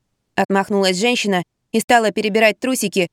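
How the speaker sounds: usual speaking voice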